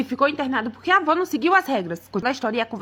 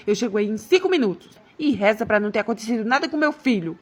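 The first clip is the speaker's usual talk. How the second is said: lower-pitched, stern wife; threatening wife; 4 semitones lower than usual. Acted. Wife warns husband as she drives over, sternly threatening. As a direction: give a low, controlled ultimatum.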